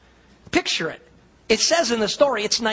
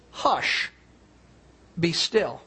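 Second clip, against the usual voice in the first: quietly confident hush; calm, quiet command; 2 semitones lower, much slower than usual. Retold or imitated. Jesus calming the storm, calm and quietly confident. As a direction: say it simply, without any frenzy. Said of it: "in a very confident, a very calm, and a very quiet voice".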